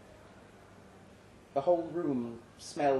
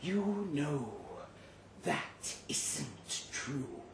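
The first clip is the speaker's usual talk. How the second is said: soft chiding; 10 dB quieter, much slower than usual. Acted. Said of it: "it chided".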